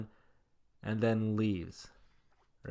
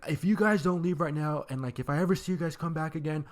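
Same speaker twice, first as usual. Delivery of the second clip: mild mock threat; 4 semitones higher than usual. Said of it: "he basically yells at us".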